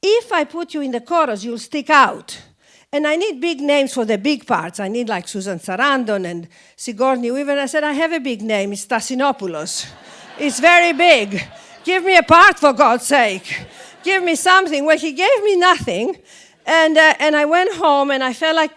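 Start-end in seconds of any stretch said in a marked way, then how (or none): 0.0-7.6 imitated director's heavy Greek accent; much thicker Greek accent. Director letting an actress down, in a thick Greek accent. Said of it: "much, much thicker". 7.9-14.8 mock-indignant, building to loud demands; indignant plea. Actress begging director for a part, indignant and building.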